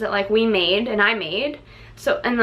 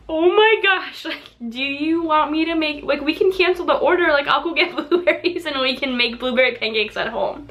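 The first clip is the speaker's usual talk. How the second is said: higher, eager worried husband voice; Dan's rushed, fussing offer, pitched up; quoting her husband; 4 semitones higher than usual. Retold or imitated. Husband offering to fix the breakfast, voiced high and anxious. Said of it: "And Dan's like".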